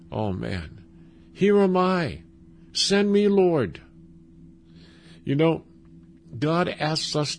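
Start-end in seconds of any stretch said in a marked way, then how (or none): 1.3-3.8 higher, fervent answer; eager high cry. Acted. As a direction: offer yourself eagerly, voice lifted. Eager answer to God's call.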